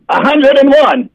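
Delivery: slow, high-pitched ancient woman; old woman. Retold or imitated. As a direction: imitate a very old wife answering. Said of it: "And she goes".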